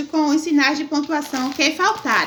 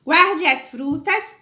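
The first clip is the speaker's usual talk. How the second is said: slow dictation; slower than usual. Shown as a demonstration. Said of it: "Vírgula".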